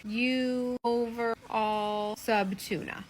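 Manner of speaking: reading the words slowly backwards; slow puzzled reading. Retold or imitated. Wife reading the phrase backwards slowly, puzzled. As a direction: sound it out word by word. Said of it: "My dumb ass is like".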